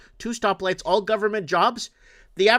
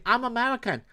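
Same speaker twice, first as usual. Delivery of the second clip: lightly imitated Chinese-accented English; a hint of broken English with a Chinese accent; 3 semitones higher than usual. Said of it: "in a broken accent".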